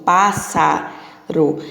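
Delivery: pássaro drawn out very slowly, SS as a long S; slow, stretched teaching word. Shown as a demonstration. Teacher modelling for children: pássaro very slow and clear. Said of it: "ainda tem um som de quê? De S".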